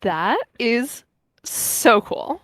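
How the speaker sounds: put-on light valley girl accent; bubbly valley girl lilt. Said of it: "so I've got a Valley Girl accent".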